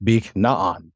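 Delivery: "bik na'an" with the accent on "na", the syllable before last; stress on NA. Shown as a demonstration. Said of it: "Here's where the accent is".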